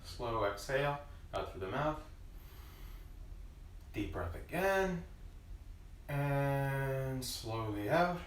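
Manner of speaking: slow, soft breathing cue; slow guided breathing. Shown as a demonstration. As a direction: draw the words out like a long exhale. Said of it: "Slow breath in through the nose".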